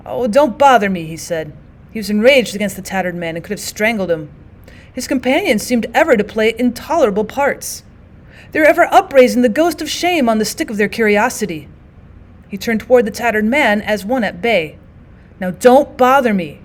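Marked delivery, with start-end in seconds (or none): 0.1-1.1 a touch of exasperated snapping. Acted. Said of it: "cry of exasperation". 15.4-16.6 desperate menace. Acted. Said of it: "with a desperate menace".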